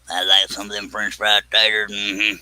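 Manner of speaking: imitating Billy Bob Thornton in Sling Blade.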